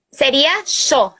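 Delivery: "xó" lento, com CH chiado bem marcado; xó bem devagar. Shown as a demonstration. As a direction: estique o "xó", som de CH. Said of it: "C H, o som". ("xó" lento com som de CH)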